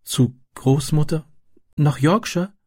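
high, pleased questioning; delighted. A narrator's reading. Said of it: "wiederholte sie erfreut".

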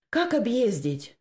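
put-on high, slow girl's question; puzzled. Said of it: "не поняла Анюта". (недоумённо)

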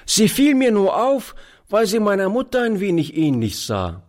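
put-on street boy. A narrator's reading. Boy continues answering.

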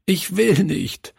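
put-on high, wailing child's refusal; acted sobbing of a small boy; sobbing protest. A narrator's reading. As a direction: plead and protest in a tearful high voice. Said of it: "schluchzte er".

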